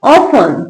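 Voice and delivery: often said as "off-un", no T; falling model often, T left out; silent T in often. Shown as a demonstration. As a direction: say often with F running into the last syllable. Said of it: "क्या पढ़ते हैं इसको".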